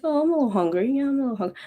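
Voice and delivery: a hint of a polite hungry stomach; mild hunger voice. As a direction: voice the stomach politely asking for a snack. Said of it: "my hunger hit me like".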